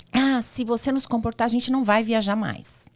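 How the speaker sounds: lightly mock a dad's empty threat; imitating a threatening father. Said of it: "um pai falou assim".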